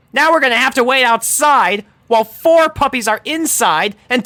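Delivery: high, loud, frantic sarcastic rant; pony ranting about the mess. A narrator's reading. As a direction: vent panic and fury at once. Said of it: "she ranted".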